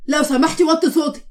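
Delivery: insistent, mildly annoyed request; stern request. Acted. Husband tells wife to quiet down.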